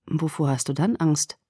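low, soft, intense whisper; hushed urgency. Acted. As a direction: press the question in a hush. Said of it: "flüsterte er eindringlich".

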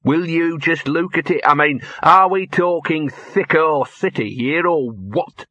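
scornful, mocking lilt; sneering. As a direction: sneer at the fancy place. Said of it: "sneered Gaspode".

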